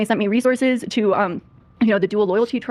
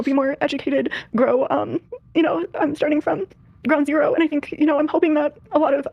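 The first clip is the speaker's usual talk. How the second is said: tearful, halting explanation; really crying; 2 semitones higher than usual. Real, not acted. Guest admitting her mistakes on a live show, crying. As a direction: push on through tears, stopping and starting. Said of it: "she's really crying".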